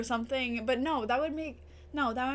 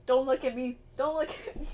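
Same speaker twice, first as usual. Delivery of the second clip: tearful, louder plea; crying; 5 dB louder, faster than usual. Real, not acted. Vlogger crying, asking viewers not to look. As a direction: plead through tears.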